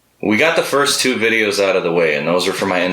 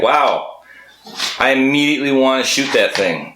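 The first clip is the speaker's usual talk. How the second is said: incredulous; 7 semitones higher than usual. Retold or imitated. Player's own quoted reaction.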